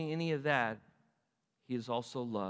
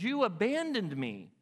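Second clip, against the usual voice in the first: slow, higher-pitched wounded reproach; hurt emotion; 4 semitones higher than usual. Acted. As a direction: draw out the pain of being left. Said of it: "Do you not hear emotion when he says".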